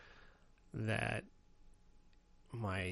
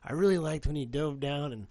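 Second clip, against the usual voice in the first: clueless classmate bluffing; 5 semitones higher, 6 dB louder than usual. Retold or imitated. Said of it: "And he goes".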